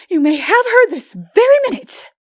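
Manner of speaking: put-on high, loud, indignant young girl; flustered girl. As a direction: throw the offer at him in a huff. Anne's voice, flustered.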